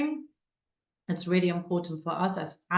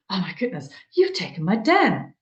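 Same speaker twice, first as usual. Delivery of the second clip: playful surprise; 4 dB louder than usual. Retold or imitated. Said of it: "We're now in a playful way".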